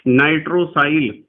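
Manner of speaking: slow, careful teacher dictation. Shown as a demonstration. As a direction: spell out the name slowly for the class. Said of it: "teacher dictating a name".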